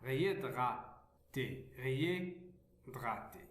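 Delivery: réhydraté said slowly as ré-y-dra-té, no H sound; careful, slowed réhydraté with a mute H; silent H. Shown as a demonstration. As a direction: say réhydraté in pieces, leaving the H silent. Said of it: "on ne la prononce pas".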